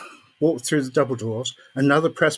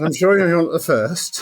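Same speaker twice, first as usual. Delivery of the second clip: laughing; 4 semitones higher, 4 dB louder than usual. Retold or imitated. Laughing reply to George Lucas.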